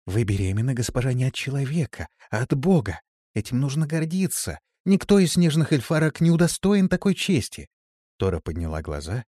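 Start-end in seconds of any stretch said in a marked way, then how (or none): 0.1-7.7 raised, earnest encouragement; warm sympathy. A narrator's reading. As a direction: build to proud, uplifting insistence. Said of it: "полна тепла и участия". (тепло и с участием)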